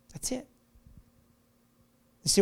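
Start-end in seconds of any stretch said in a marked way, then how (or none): 0.1-0.4 whispered. Real, not acted. Answer to the seeker.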